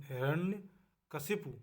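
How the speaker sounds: हिरण्यकशिपु drawn out slowly, ending -शिपु clear; slow teacher demo of हिरण्यकशिपु; careful correct form. Shown as a demonstration. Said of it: "हिरण्यकशिपु लिखा जाता है शुद्ध रूप".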